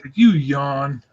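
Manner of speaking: put-on slow, gentle, babying voice; mock soothing. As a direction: coo at him like a tired child. Teasing sleepy co-host Pat.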